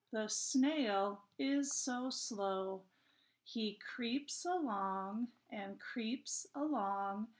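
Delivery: slow, measured poem reading with pauses between phrases; poem read to children. Acted. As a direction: read word by word, slowly, for young children.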